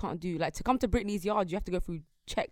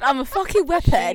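laughing, slow and loud quote; quoting through laughter; 6 semitones higher, 10 dB louder than usual. Retold or imitated. Retelling a contestant's line to friends, laughing. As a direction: crack up while quoting her. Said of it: "She said".

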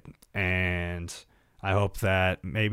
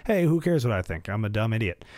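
a touch of mocking self-talk; self-mocking put-down. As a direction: sneer at yourself lightly. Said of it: "like I just did there".

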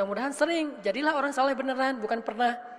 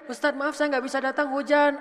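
mock tearful apology; 4 semitones higher, 3 dB louder than usual. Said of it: "nangis juga aneh kan".

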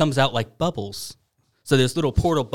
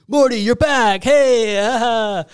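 much higher and louder, surprised outburst; startled Rick; 9 semitones higher, 5 dB louder, much slower than usual. Retold or imitated. Rick startled when the cloned Morty pops out, high and loud. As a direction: caught off guard by the returning boy. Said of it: "And he's like".

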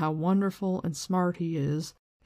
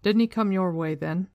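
louder call down the street; shouting; 5 dB louder than usual. A narrator's reading. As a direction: call out to the other man.

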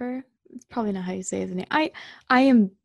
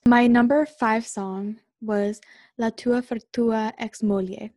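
Italian accent; 3 dB louder, slower than usual. Real, not acted. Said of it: "I know my Italian accent's really bad".

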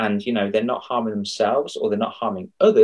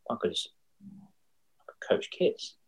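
whispered realization; 8 semitones higher, 7 dB quieter, slower than usual. Retold or imitated. Retelling a sudden realization.

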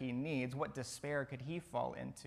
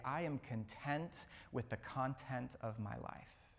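soft mantra; 5 dB quieter than usual. Shown as a demonstration. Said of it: "Let that be your mantra".

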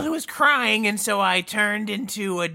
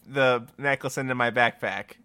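low character voice; 7 semitones lower than usual. Acted. Emosif low disguised voice.

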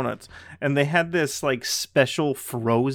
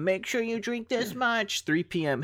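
mock motivational bottle; 9 semitones higher, 4 dB quieter than usual. Bottle's time markings given a voice.

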